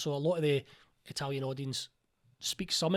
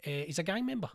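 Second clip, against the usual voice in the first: insistent director; 4 semitones higher than usual. Retold or imitated. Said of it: "And she's like".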